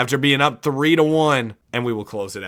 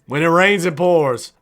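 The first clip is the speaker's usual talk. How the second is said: higher, louder hyped repeat; excited; 3 semitones higher, 3 dB louder than usual. Shown as a demonstration. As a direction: say it again with hype.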